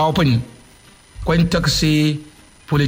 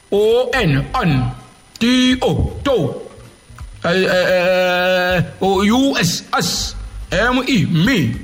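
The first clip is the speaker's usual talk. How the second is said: put-on spelling out letters like a child reciting; mock child spelling; slower than usual. Vlogger mocking a politician as a child, sing-song spelling. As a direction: chant the letters like a schoolkid, lightly mocking. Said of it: "speaking like children's way".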